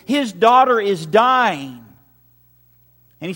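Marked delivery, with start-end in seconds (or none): 0.1-1.8 slow, drawn-out echo of a father's desperation; mild desperation, heavily drawn out; retold desperation. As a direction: stretch it out with restrained urgency. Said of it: "hear the panic in his voice".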